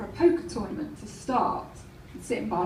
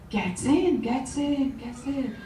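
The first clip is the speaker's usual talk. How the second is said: approving repetition. Retold or imitated. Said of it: "seeing that they're doing okay".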